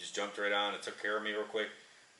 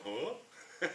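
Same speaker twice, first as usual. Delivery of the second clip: mock shocked huh; 8 semitones higher, 7 dB quieter than usual. Boss shocked at the price.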